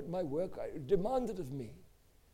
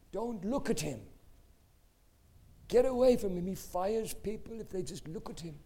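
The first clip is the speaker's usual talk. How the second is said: urgent, raised retold warning; acting out an anxious manager; fearful warning; 2 semitones higher than usual. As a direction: warn him off in alarm.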